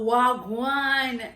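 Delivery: wagwan in Jamaican patois. Shown as a demonstration. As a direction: greet them in patois. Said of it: "Hey y'all".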